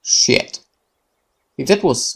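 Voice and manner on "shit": breathy whispered swear; whispered curse. Acted. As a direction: hiss it under the breath. Sudden dread, muttered curse.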